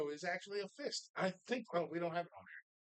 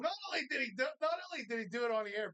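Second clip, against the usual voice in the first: excited outburst; 5 semitones higher, much faster than usual. Real, not acted. Excited retelling of on-air blunder.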